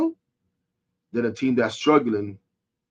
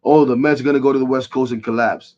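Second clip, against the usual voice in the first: mocking the joke; 5 dB louder than usual. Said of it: "The joke is always is".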